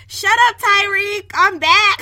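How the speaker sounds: mock sassy comeback; sassy meme girl. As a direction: snap back with sass. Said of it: "And she goes".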